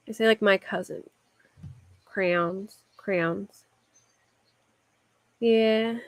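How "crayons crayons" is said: "crayons" as one syllable, cranz, with a nasal a; "crayons" squeezed short, Philly style. Shown as a demonstration. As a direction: say "crayons" the Philly way twice, rising. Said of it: "showing her own way of saying".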